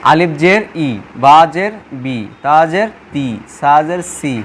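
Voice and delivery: teacher spelling out letter, "জের", then the i syllable as in "বা জের বি"; measured drill, landing on "ই" sounds; short-i pronunciation drill. Shown as a demonstration. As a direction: recite evenly, slightly low, each pair ending in an i sound like "ই", "বি", "তি". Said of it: "রস্যিকারের মতো হবে। যেমন".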